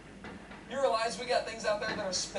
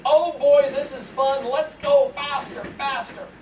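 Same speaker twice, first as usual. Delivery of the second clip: mock-excited squeal of a thrilled kid, louder and slower; gleeful kid on a merry-go-round; 3 semitones higher, 7 dB louder, slower than usual. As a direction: play a kid loving the ride. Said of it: "the kids ... are gonna be screaming".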